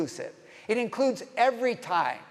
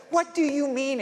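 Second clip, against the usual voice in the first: higher-pitched, mildly exasperated question; exclaiming Nicodemus; 6 semitones higher than usual. Acted. Nicodemus questioning Jesus, exclaimed in protest. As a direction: exclaim it as a baffled objection. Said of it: "exclaimed Nicodemus".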